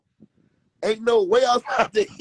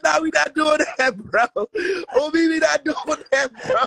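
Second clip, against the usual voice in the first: half-crying mock protest; insisting while laughing; laughing refusal; 4 semitones higher than usual. Refusing sweet potato fries.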